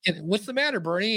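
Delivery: talking to a pet. Pretend. Talking to the upset cat.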